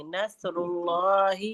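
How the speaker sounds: نصر اللہ slow, with a thick, full L in اللہ; heavy Allah. Shown as a demonstration. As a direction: model نصر اللہ drawn out, اللہ pronounced heavy. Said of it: "لفظ اللہ کو ہم یہاں موٹا پڑھیں گے". (نصر اللہ میں لفظ اللہ موٹا)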